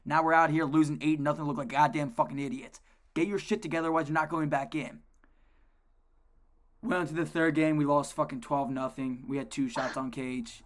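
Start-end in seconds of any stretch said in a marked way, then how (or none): 0.0-5.0 mild mock chewing-out. Coach cussing out eighth grader.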